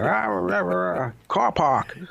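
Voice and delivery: hammed-up Boston accent ranting; mock angry Boston shouting. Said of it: "the shouting starts, and they're like".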